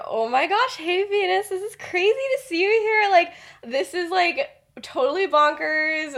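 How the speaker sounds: high, loud, overexcited gushing; way too excited. Acted. Lily finally cornering Venus in the library, way too excited. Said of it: "like, way too excited".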